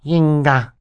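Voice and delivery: put-on high-pitched, mildly sad baby talk; a touch of sadness in a high little voice. A narrator's reading. Baby sister answers her siblings at breakfast, sad. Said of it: "Sunny said sadly".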